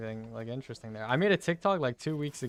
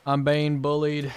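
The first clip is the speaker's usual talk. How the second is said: whiny yell; 2 semitones higher, 9 dB louder than usual. Real, not acted. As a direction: yell it like you're wronged. Complaining about being bullied.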